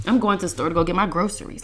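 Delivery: "groceries" said GRO-sur-eez in a quick sentence. Shown as a demonstration. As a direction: rattle it off, with "s" in "groceries". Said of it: "it sounds gross".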